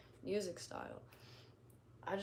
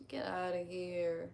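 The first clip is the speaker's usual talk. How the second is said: drawn-out New Jersey accent; slow New Jersey accent, vowels stretched; slower than usual. Shown as a demonstration. Streamer showing chat an accent, New Jersey drawl. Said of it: "that accent".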